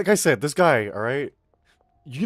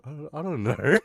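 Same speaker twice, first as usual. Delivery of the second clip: higher, stammered through laughter; laughing; 5 semitones higher than usual. Retold or imitated. Handler asked what's wrong with him, laughing helplessly. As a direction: break into laughs on the retold answer. Cracks up retelling his own answer.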